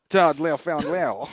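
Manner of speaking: slow, exaggerated French accent. Answering what his name is, drawn-out French accent. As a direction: stretch the name in mock French. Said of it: "sir, Mister French".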